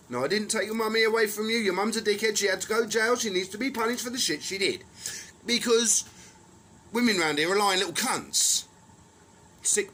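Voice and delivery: loud, high, fast angry reply; angry retort. Real, not acted. Answering the mocked child, loud and angry.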